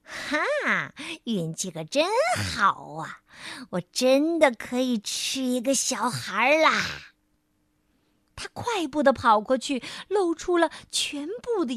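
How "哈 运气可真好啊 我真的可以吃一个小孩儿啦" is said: a mild gleeful cheer; hungry little crocodile spotting prey; excited. Acted. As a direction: gloat a little at the luck. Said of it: "琪琪兴奋地说".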